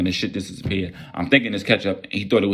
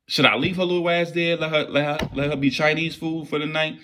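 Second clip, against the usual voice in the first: higher, teasing what-if musing; mock dilemma; 7 semitones higher than usual. Joking to himself about ditching the girl, voice raised high. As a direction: toy with leaving her there, voice up high. Weighing whether to abandon girl.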